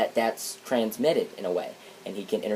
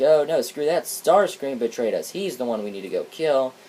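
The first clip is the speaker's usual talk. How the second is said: higher, louder mock whine; whiny jerky voice; 4 semitones higher, 3 dB louder than usual. Triple Changers refusing Soundwave's plan, mock whine. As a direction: brush him off like a sulky bully. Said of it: "be all whiny and jerky".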